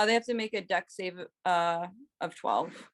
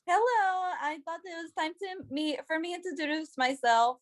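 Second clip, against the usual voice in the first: polite introduction; 8 semitones higher than usual. Acted. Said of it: "she's gonna be like".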